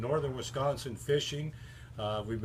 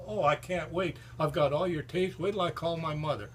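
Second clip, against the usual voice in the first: mock thrill; 5 semitones higher than usual. Waitress acting thrilled.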